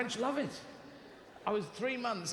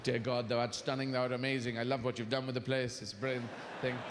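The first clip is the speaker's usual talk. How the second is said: lightly lowered, solemn prayer voice; hint of pious praying to God, a touch lower; mock prayer; 4 semitones lower than usual. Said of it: "Steve prayed".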